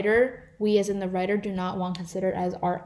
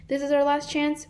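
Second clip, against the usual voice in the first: higher-pitched quote, lightly yelled like a team; mild mock yell; 5 semitones higher than usual. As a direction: give the team's line a light, raised lift. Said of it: "because the team is yelling".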